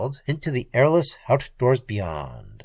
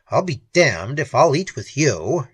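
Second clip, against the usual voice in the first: louder angry snarl; 4 dB louder than usual. Acted. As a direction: spit the refusal. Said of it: "he snarled".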